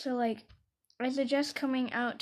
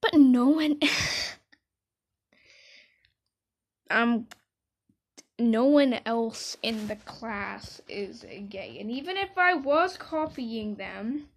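retold protest; 6 dB louder, slower than usual. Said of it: "And I'm like".

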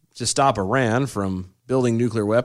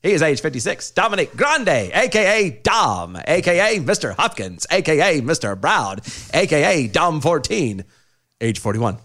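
1930s gangster voice. Acted. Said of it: "I need the nineteen thirties voice".

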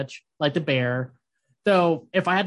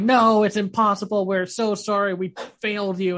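higher, overdramatic protest and apology; mock distraught apology; 5 semitones higher than usual. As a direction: wail it in mock despair. Acting out healers' distraught protest.

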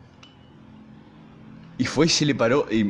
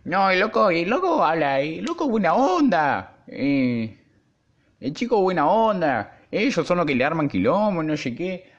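much higher, drawn-out mocking impression of a squeaky-voiced kid; 8 semitones higher, slower than usual. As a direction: pitch way up and whine it teasingly. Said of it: "el loco tenía una voz de pito".

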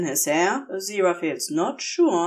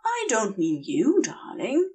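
higher, dreamy, lilting angel confession; a giddy angel drunk on venom, gushing; tipsy Aziraphale; 6 semitones higher than usual. Acted. Aziraphale reassuring Crowley.

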